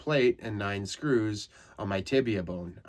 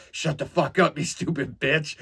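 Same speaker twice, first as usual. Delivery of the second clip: higher, louder furious snap at the nurse; groggy angry outburst; 6 semitones higher, 5 dB louder than usual. Retold or imitated. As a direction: lash out half-conscious. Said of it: "And I was like".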